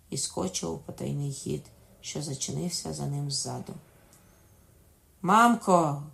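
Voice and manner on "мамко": loud, urgent summons; raised-voice cry. A narrator's reading. Dying king calls to his nurse, raised-voice cry. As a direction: call out louder for the nurse. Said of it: "крикнув король дужчим голосом".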